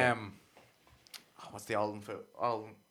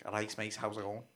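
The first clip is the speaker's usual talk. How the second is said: Jamie Carragher impression; 7 dB quieter than usual. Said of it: "Jamie Carragher impression".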